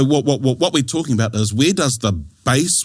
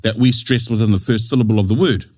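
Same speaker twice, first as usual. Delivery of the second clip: objecting learners. Retold or imitated. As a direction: lightly mimic a learner querying the rule. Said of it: "Because they go".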